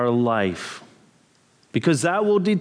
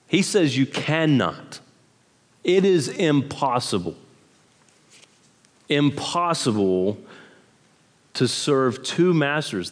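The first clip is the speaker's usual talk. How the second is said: "cannot" held long and firm, then "impossible" repeated; emphatic. Shown as a demonstration. Preacher stressing to the congregation that it cannot be done. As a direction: land each word with weight. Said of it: "he is very emphatic here".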